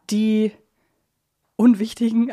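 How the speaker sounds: normal talking voice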